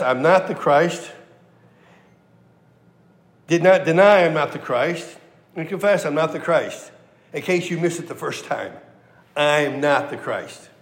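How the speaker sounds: a preacher driving home a threefold denial; emphatic denial. Shown as a demonstration. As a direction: repeat it firmly like a refrain. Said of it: "Very emphatic".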